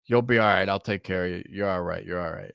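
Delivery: reassuring. Retold or imitated. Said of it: "He's like".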